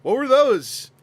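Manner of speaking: rising to a loud "what were those"; incredulous. Retold or imitated. Streamer acts a baffled date hearing the answer. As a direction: react in growing disbelief. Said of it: "you're like".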